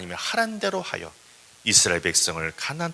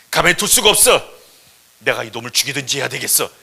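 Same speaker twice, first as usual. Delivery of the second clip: loud outburst, dropping at the end; angry; 3 semitones lower, 7 dB louder than usual. Acted. God refusing to let Moses be, acted angry outburst. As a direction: threaten in acted wrath. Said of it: "하나님이 화를 내는 거예요".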